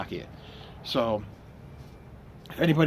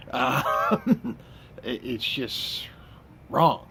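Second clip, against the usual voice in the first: laughing; 3 semitones higher, slower than usual. Real, not acted. Laughing at own confession.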